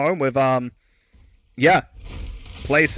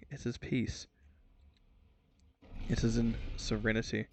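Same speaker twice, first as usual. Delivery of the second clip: soft, fading, peaceful musing; dreamy calm; 6 dB quieter than usual. Acted. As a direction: hush down as if at peace. Mock-tender musing about the objective.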